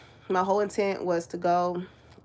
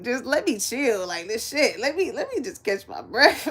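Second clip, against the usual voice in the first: Ray J voiceover. Retold or imitated. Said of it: "that Ray J, uh, voiceover".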